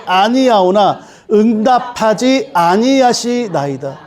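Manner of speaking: slow, measured psalm recitation; reading together. Acted. Preacher leading the congregation through Psalm 22, slow recitation. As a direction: read the psalm aloud with the congregation. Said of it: "같이 한번 읽어볼까요".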